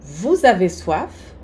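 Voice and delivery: "Vous avez" linked with a clear z sound; "vouz-avez" said as one linked word; liaison. Shown as a demonstration. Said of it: "a liaison entre vous e avez obrigatória".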